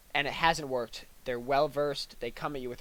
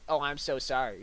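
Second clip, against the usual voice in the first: sincere apology; 3 dB louder than usual. Shown as a demonstration. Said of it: "You're saying".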